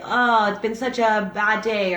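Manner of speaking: slow, heavy, down-in-the-dumps sigh of a line; mock weary complaint; gloomy bad-day voice. Shown as a demonstration. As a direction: drag it out like a rotten day got to you. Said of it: "listen to the tone of voice when you say".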